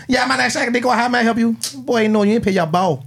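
high, sing-song phone rep voice; call center agent voice. Retold or imitated. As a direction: switch into a chirpy customer service voice. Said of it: "they be at that T-Mobile call center".

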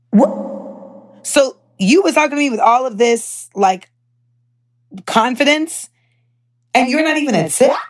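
sassy outraged rant; indignant disbelief. Real, not acted. Outraged at salesman without tech role.

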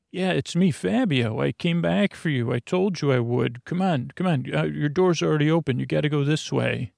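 a hint of a hurried rescuer voice; non-regular voice. Fabio rescuing Samantha from her cell, lightly put-on urgent voice. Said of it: "I'm talking in my non-regular voice".

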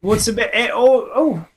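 mock Canadian. Quoting South Park to his cohost in a mock Canadian accent. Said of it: "A little South Park reference there".

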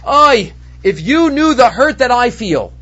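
mild drawn-out lament, slowly; slow, aching cry of a prophet. Acted. Prophet tells others they cannot know his hurt, lamenting. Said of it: "Yirmiyahu Navi says".

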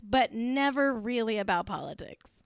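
soft knowing whisper. Shown as a demonstration. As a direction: whisper it like a juicy secret. Repeats the quote, knowing whisper.

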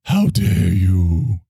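very slow, stretched mock indignation; hammed-up scolding line; Greta Thunberg voice. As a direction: draw out every word in parody.

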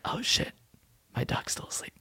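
unvoiced hushed voice; whispering. Real, not acted. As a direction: whisper so the dog sleeps on. Dog asleep, keeping quiet.

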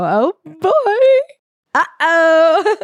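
high-pitched comic uh-oh; playful mock alarm. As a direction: tease with a high, rising voice. Imagined reaction passing bar window.

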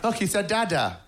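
high, proud parent gush. Retold or imitated. Parent showing the baby video, high and gushing. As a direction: coo it like a doting parent.

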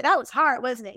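comforting self-talk. Pretend. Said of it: "give myself a hug and say".

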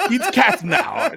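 put-on slow Eastern European accent through laughter. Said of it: "Also, perfect accent".

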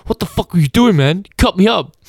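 high, loud mock road rage yell; hammed-up angry motorist; angry driver shout. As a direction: bark it like a furious driver out the window. Retold road rage meme driver.

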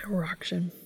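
unvoiced giggly whisper; embarrassed whisper. Real, not acted. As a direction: whisper it sheepishly. Whispered retake, laughing after.

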